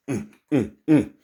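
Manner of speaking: short imitated "mm" grunts in march step. Comic telling of a lion marching through the jungle, rhythmic grunts. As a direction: grunt along like a strutting lion.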